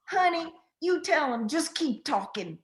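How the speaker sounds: put-on loud Southern accent of an old Texas lady. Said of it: "she had a strong Southern accent".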